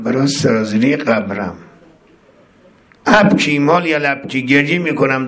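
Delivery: chanted lament, line by line; sermon-style chanted prayer of weeping; mournful prayer recitation. Acted. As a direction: recite the supplication as a grieving lament. Recites the Abu Hamza prayer lines.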